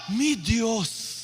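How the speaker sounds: drawn-out Spanish exclamation of wonder; dramatic Spanish awe. Pretend. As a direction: stretch the words in acted amazement. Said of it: "E no outro dia em espanhol".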